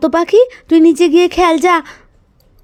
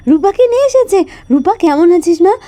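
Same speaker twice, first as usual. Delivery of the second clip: joyful surprise; 5 semitones higher than usual. Acted. Relieved joy at injured girl.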